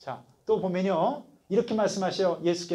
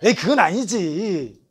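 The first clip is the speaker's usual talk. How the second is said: embarrassed refusal; 3 semitones lower than usual. Retold or imitated. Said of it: "제가 정상적인 사람이라면 어떻게 해야".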